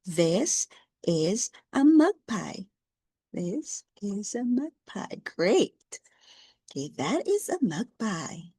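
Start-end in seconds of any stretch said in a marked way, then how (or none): 0.0-2.6 slow model reading. Shown as a demonstration. Teacher models the sentence slowly for James. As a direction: say it slowly so he can copy. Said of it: "Can you read it?".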